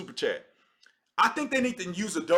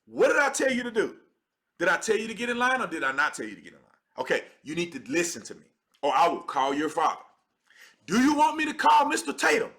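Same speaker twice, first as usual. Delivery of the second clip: acted no-nonsense telling-off; stern parent demanding an answer, lightly acted; straight-up scolding. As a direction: lay down the law to a child. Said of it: "tell him straight up".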